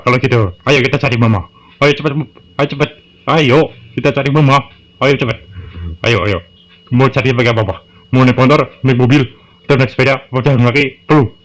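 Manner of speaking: put-on a frightened kid urging Papa to hurry; panicky child. Child pleads, urges search.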